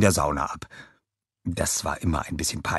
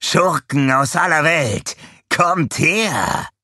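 high, loud, drawn-out summons; announcer call; 9 semitones higher, 5 dB louder, much slower than usual. A narrator's reading. Advert announcer summoning the world's villains, loud call. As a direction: summon them in booming advert style. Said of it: "rief er".

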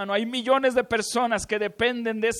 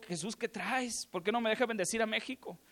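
sad; 2 semitones higher, 6 dB quieter than usual. Retold or imitated. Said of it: "yo me pongo triste con Jesús".

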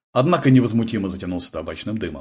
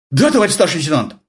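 flustered babble; 7 semitones higher, 5 dB louder, faster than usual. A narrator's reading. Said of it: "пролепетал тот растерянно".

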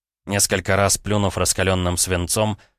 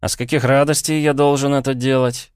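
higher, louder incredulous question; genuinely astonished; 7 semitones higher, 4 dB louder than usual. Acted. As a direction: act truly amazed at the demand. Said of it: "натурально изумился Петя".

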